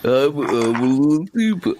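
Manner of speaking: husky, groggy morning voice; sleepy husky good morning. Shown as a demonstration. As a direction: croak it out half asleep. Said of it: "can you say".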